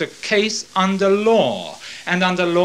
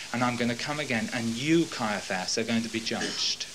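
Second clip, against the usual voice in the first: softer, lower grave warning; solemn warning; 4 semitones lower, 6 dB quieter than usual. Acted. Jesus warning Caiaphas, low and soft. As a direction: warn him quietly, with weight.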